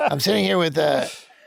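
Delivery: loud, rough put-on voice. Acting out a speakerphone call inviting someone to shoot Jackass stuff, in a Spike voice. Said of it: "this is my Spike voice".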